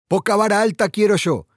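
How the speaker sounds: mild sergeant's shout, pitched high; stentorian shout. A narrator's reading. Sergeant reining in his flirting troops, mild stentorian shout. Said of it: "gritó el sargento con acento estentorio".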